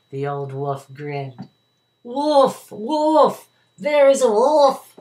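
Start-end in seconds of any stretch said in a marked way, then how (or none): 2.0-4.9 very high, loud panicked scream; frightened cry. A narrator's reading. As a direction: shout for help from the tree. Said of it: "the boy cried".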